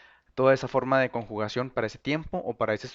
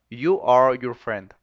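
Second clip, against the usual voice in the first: You are your friend said slow and louder; slow model sentence; 7 dB louder, much slower than usual. Shown as a demonstration. Teacher saying it slowly for students to repeat. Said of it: "Repeat after me".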